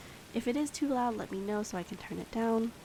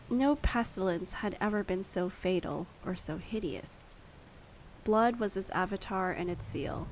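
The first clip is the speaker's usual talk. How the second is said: story narration. Acted. Reading Poe story aloud.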